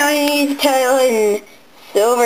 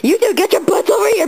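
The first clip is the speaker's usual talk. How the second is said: shouting; 4 semitones higher, faster than usual. Pretend. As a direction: yell for them to come over. Calling the others over.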